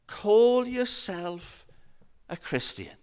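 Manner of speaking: slow, drawn-out reproach dropping at the end; accusing inner voice. Acted. Little voice doubting a Christian's faith, slowly reproachful. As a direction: let the accusation sink slowly, lightly acted. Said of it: "and it says".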